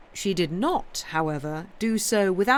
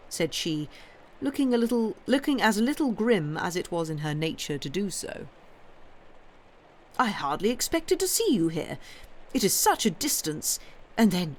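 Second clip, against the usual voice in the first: gushing bishop's wife; 2 semitones higher than usual. Acted. Mrs Proudie greeting the Countess, lightly voiced and gushing.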